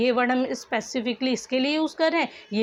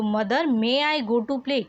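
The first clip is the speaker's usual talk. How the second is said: slow dictation reading; much slower than usual. Shown as a demonstration. Teacher reads answered sentence.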